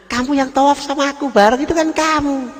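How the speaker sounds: high, amazed insistence; can't believe he's denying it; incredulous friend. Acted. Friend insists he saw him. (teman heran, nada tinggi)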